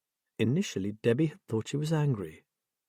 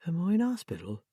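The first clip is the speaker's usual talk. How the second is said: put-on twittery old lady; 7 semitones higher, 3 dB quieter than usual. A narrator's reading. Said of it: "like some twittery little old lady".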